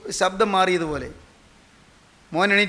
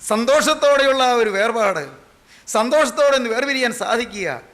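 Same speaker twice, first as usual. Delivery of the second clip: emphatic preaching; 5 semitones higher, 5 dB louder than usual. Real, not acted. Preacher exclaims on joyful departure.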